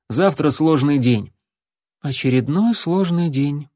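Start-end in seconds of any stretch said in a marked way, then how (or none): 2.0-3.7 flat deadpan drone; monotone. Acted. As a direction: say it with no expression at all. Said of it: "монотонно сказал Алан". (монотонно, без выражения)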